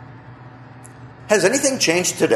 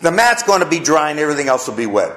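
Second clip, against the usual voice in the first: Gideon asking again; 4 semitones higher than usual. Retold or imitated. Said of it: "that wasn't enough for Gideon".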